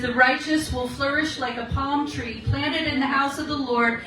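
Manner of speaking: slow, weighty reading of the psalm; scripture reading. Acted. Reading Psalm ninety-three to the women, slow and weighty. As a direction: draw out each line like a preacher.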